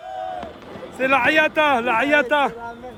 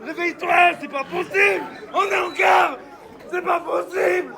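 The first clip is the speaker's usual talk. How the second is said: disbelieving shouts. Real, not acted. Fan in disbelief after win.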